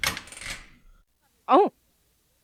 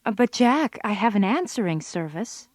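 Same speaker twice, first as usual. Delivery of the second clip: louder, pointed objection; exasperated retort; 4 dB louder than usual. Real, not acted. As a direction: call out his lame excuse. Picking apart a boyfriend's excuse.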